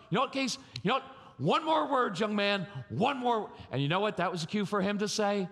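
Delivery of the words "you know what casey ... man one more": mock furious warning to his son, pitched up high; angry dad warning. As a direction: threaten the boy, raising pitch on one more word. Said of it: "I'd come in".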